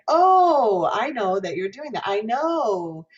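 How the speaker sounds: "Oh" high, loud and gliding, "know" likewise; American diphthong O. Shown as a demonstration. Teacher acting out everyday American O, "Oh" and "know" as diphthongs. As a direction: glide the O in "Oh" and "know". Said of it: "that diphthong is gonna happen".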